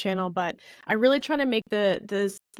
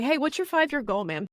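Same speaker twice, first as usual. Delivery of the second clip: blunt demo; 4 semitones higher than usual. Shown as a demonstration. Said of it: "So, for example".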